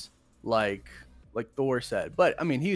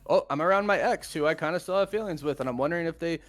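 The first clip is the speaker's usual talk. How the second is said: quick, higher, nervous rambling; awkward inner voice; 5 semitones higher, 3 dB louder, faster than usual. Retold or imitated. Thor near his ex, quick nervous musing. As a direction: rush it like a flustered ex. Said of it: "that's like".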